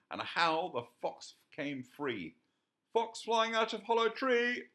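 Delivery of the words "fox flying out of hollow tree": excited call. A narrator's reading. Percy calling out excitedly.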